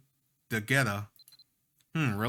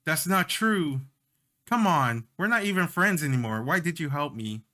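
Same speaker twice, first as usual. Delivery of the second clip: raised voice, choked with feeling; emotional yell; 4 semitones higher than usual. Acted. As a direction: yell it like the words are caught in the throat. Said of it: "Catel suddenly yells, choked with the emotion".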